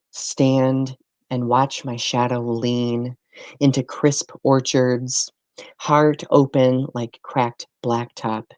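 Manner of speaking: deliberate, line-by-line poetry delivery; poetry reading. Acted. Reads a poem aloud.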